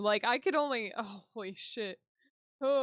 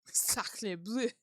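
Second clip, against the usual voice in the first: half-hearted mock French exclamation; badly faked French; bad French accent. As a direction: try a French accent you know you can't do. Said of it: "can't do it".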